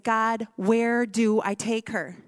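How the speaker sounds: slow, pleading cry to God; mother praying for where to take her daughter; desperate prayer. Retold or imitated. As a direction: beg God slowly for an answer. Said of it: "I prayed that prayer".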